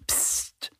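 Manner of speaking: soft, voiceless shush; hushing. A narrator's reading. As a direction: shush your friend quietly. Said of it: "macht Annie". (leises Psst)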